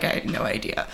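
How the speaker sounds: breathy hushed surprise; whispered reaction. Retold or imitated. Listeners hearing the podcast, whispered surprise. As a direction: whisper it, no voice at all.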